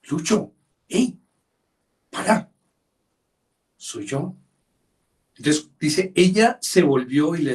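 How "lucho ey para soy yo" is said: high, excited call to someone lost in thought; God calling out. Pretend. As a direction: call out high to snap them back.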